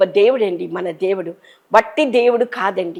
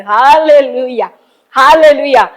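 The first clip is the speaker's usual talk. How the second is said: joyful hallelujah; 3 semitones higher, 5 dB louder, slower than usual. Real, not acted. Preacher's praise exclamation.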